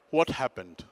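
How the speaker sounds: unhurried, even question; lightly voiced calm old man; calm grandfather. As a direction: ask mildly, unmoved by the outburst. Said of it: "my grandfather is a very calm person".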